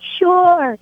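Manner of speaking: an obliging, gentle-hearted reply, retold; kindly old priest. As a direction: lightly voice a kind priest saying yes. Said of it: "this old loving Irish priest".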